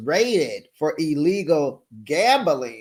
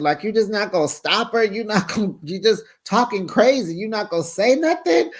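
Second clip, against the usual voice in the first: higher, exasperated nagging; a hammed-up wife fussing at her husband; mock angry Jen; 6 semitones higher than usual. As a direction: scold the husband, sped up at first. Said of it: "Jen gets mad at Eddie".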